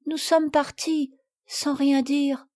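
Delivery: slow, sheepish confession; ashamed little girl, drawn-out words. Acted.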